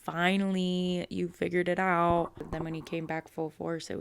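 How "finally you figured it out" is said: a louder, slow "Finally"; god finally pleased with his follower, louder; Loki's triumphant voice. Retold or imitated. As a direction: proclaim it like a god who was waiting. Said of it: "he was like".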